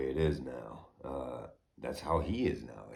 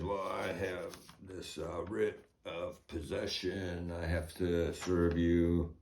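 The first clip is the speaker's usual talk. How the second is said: drawn-out officer reading it off; slow and matter-of-fact, like a bored official; slow, calm deputy; 3 semitones higher, slower than usual. Retold or imitated. Homeowner mimicking the deputy serving him papers, slow and calm.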